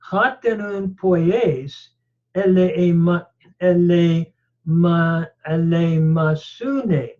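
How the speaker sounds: slow, careful Greek text reading. Shown as a demonstration. Teacher reading the Greek passage to students, slowly. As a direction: read the Greek verse out measured and deliberate.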